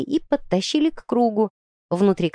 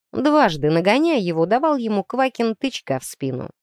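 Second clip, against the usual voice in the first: ordinary delivery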